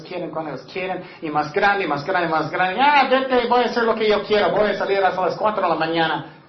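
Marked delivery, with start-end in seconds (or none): 2.8-6.3 put-on defiant teen. Preacher imitates a rebellious teenager talking back. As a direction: brush them off like a rebel kid. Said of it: "rebellious teen voiced".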